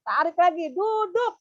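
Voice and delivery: high, firm teacher command; teacher voice to a small pupil; instructing a child. Shown as a demonstration. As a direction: direct the child to sit back down. Demo instructing child to sit.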